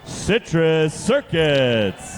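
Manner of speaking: slow, drawn-out hype name call; fighting game announcer. Acted. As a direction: stretch the name like a fight intro. Robot teams introduced at competition.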